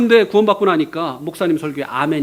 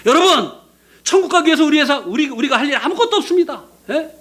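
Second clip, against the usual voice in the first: raised preaching voice, a touch higher; 6 semitones higher than usual. Retold or imitated. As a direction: preach it to the congregation. Young preacher sermon retold. (설교하듯 높인 목소리)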